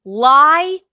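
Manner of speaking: loud, punched first word, stepping down after; each word alone, hard then easing; real angry accusation. Real, not acted. Man rebuts a played clip of his accuser, angry accusation. Angrily calling out a lie.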